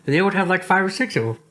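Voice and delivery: talking through a yawn; words stretched by a yawn. Real, not acted. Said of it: "My bad for the yawning".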